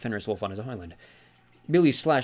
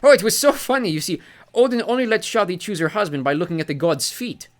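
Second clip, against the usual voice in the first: much higher and louder, gleeful; delighted; 10 semitones higher, 8 dB louder than usual. Acted. Sea god gleefully tells the feet contest story. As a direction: tell it as the funniest thing ever. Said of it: "claps his hands in delight".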